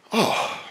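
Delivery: breathy, voiceless "oh" of letdown; acted deflated exhale; disappointed sigh. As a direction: sigh it out as if let down. Acting disappointment on getting it.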